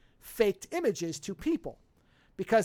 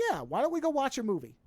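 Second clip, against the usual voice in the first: lightly voiced innocent, pitched up; a hint of earnest innocence, higher voice; virtuous innocent; 4 semitones higher than usual. Man suggesting a movie to the woman, lightly voiced innocent. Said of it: "angling him as a virtuous innocent".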